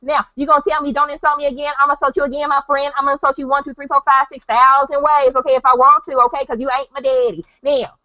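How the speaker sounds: very high, fast falsetto sass; shrill hammed-up diva voice; emotional female caricature. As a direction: camp it up as a mocking woman. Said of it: "if I really wanted to be an emotional female".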